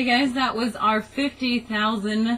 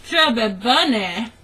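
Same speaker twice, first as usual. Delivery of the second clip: mouth full; 4 dB louder than usual. Real, not acted. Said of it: "stick it in your mouth".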